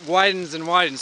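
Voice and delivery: winded from the climb, breathing hard. Real, not acted. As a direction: talk between breaths after a climb. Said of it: "Sorry, I'm a little bit out of breath".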